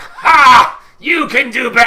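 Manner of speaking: loud, high mocking challenge; cocky taunt. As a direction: goad him from the floor. Pinned wrestler taunts.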